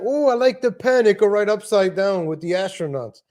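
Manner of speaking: lightly voiced pushy host offering the pen; mock New York sitcom character; pen scene voice. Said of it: "He's like".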